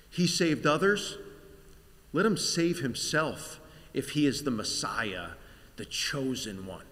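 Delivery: mocking. Clergy mocking the crucified.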